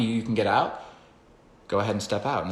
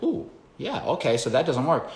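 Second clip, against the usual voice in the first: dog's inner voice; 4 semitones higher than usual. Retold or imitated. Dog voiced giving up.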